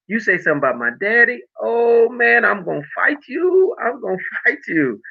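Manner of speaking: rising, laughing mock threat; joking, heated, high; half-laughing tough talk; playful threat. Real, not acted. Jokingly defends his daddy.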